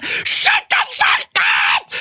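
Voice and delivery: very high, drawn-out strained scream; imitated screaming. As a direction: scream like a gangster losing it. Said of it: "Just scre".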